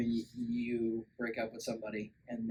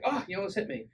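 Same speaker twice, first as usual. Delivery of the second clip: high, lightly voiced taunting devil; mock devil voice; 4 semitones higher, 5 dB louder than usual. The devil taunting the couple after the near miss, high mock voice. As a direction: tease them as the devil on its way. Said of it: "and it's like".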